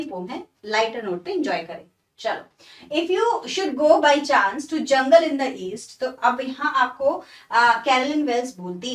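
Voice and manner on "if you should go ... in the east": slow, deliberate recitation of the line; poem reading. Shown as a demonstration. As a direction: read the verse slowly, word by word. (धीमे-धीमे कविता पढ़ना)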